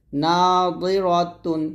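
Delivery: নাদিরাতুন slow with a heavy দ; slow heavy dad. Shown as a demonstration. Teacher demonstrating heavy দ slowly. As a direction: drawl নাদিরাতুন with full দ. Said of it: "দজের দই".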